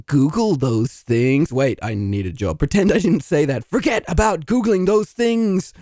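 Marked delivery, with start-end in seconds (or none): 3.6-5.7 brisk, insistent correction; emphatic retraction. Acted. Applicant taking back a remark to the interviewer, emphatic. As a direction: firmly take it back, emphatically.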